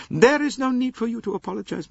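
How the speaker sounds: lofty aged princess voice; old princess. Acted. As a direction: voice the elderly princess, cool and proud. Princess voice held.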